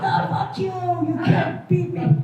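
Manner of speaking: hammed-up tough guy in the shower; macho war cry. Men fighting the shower water, hammed-up yell. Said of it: "It's like".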